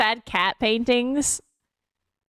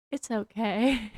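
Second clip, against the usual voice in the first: soothing; 6 dB quieter, slower than usual. Retold or imitated. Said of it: "we have to be like".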